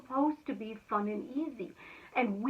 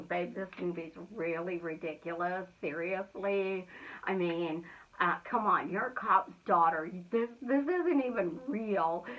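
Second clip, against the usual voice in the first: a lightly voiced husband, lower and teasing; husband teasing his wife on the couch, lower and mocking; 4 semitones lower than usual. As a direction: tease her about the movie, lower. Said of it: "and he's going".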